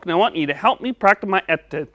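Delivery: "S's" pronounced like "etta". Pretend. Puppet asking teacher for help, lisping "S's" as T. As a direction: say "S's" with T sounds for each S. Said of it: "help you say your S".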